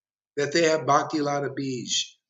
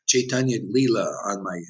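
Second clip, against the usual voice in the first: smug devotee; 4 semitones lower than usual. Retold or imitated. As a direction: lightly mimic a pious book-owner, slowing at the end. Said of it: "Ooh, Prabhupada said".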